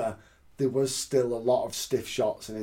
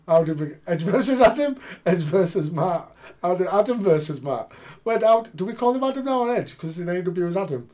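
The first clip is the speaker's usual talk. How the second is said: laughing confusion; 6 semitones higher, 5 dB louder than usual. Real, not acted. Laughing confusion over names.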